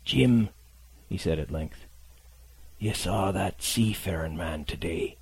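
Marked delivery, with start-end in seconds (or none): 0.0-0.5 calling out weakly. Acted. Dying captain calls the boy. 2.8-5.2 put-on weak old sailor. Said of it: "weakness of the voice".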